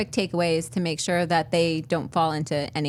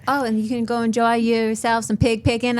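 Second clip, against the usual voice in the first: attempted Southern accent. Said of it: "Jess's attempt at a Southern accent".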